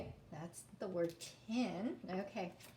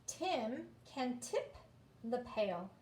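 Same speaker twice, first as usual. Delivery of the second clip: slow read-aloud; slower than usual. Shown as a demonstration. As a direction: stretch "tip", slow and rising. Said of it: "reading the story aloud".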